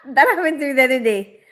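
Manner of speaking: laughing at your own forgetfulness; amused laughing. Real, not acted. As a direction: burst out laughing, then talk on.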